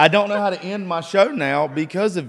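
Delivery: loud, high, laughing through words. Real, not acted. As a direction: laugh while you say it. Laughing at the compliment.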